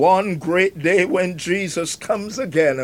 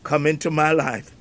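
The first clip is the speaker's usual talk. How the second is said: prayer; 3 semitones lower, 3 dB quieter than usual. Pretend. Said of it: "You can say".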